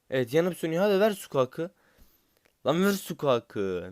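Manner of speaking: high, loud pleading at the box; excited begging. Real, not acted. Gamer begging the box for Sukak, high excited shouting. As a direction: shout at the screen to give Sukak.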